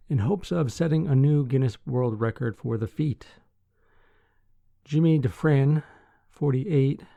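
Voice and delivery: measured newsreader delivery with firm sentence openings; news article read. Acted. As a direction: read the article out clearly to listeners.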